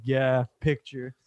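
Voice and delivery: slow, unenthused imitation; drawn-out, indifferent grunt of agreement; standoffish reply. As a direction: mimic a star who can't be bothered. Standoffish rapper's reply, retold.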